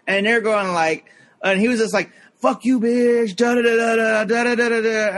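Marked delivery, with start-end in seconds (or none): 2.4-5.2 high mock cursing, trailing into gibberish; imitated angry shouting. Armenian guy cursing back at the woman, mock angry shout. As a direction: throw the insult back in a raised voice.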